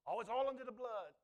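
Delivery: mocking excuse. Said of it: "Some Christians get that wrong".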